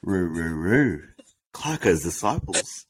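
chanting hype-man intro. Acted. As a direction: chant it like a crowd warm-up. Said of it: "come up with a little bit of an intro".

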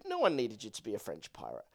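half-mock pleading; exasperated advice. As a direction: talk him out of it, exasperated. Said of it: "you're like".

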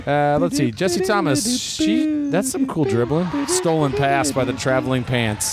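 lively game announcer; sports commentary. Acted. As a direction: call the game. Play-by-play commentary.

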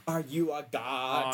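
imitating an ominous slow question; slow hammed-up movie villain; slow, drawn-out quote. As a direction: stretch each word out for mock menace. Quotes Gozer's line from the film.

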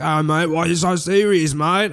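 Australian impression. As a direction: lightly put on an Australian mate. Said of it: "even doing a real accent".

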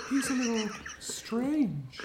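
slow giggling whisper. Acted. Girl confiding to Ned about her strange uncle, giggly whisper. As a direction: confide it secretly, breath only.

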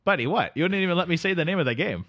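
sleepy Canadian drifter greeting his pal; Canadian accent. Acted. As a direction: play the neighbourly Canadian couch guest. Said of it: "Canadian towns".

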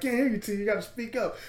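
mock Paulie yelling on a flip phone; calling over bad line. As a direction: shout into a crackly phone.

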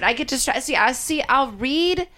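real fluster, restarting through laughter. Real, not acted. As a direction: trip over the words, laughing. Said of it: "I am flustered".

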